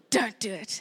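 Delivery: low, mock-stern warning. Mom warning son not to throw, mock-stern. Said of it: "And I said".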